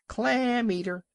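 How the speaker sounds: high jeering cry; a mob of birds jeering; yelling gulls. A narrator's reading. Seabirds mocking the old walrus, high yelling. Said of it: "yelling and screaming".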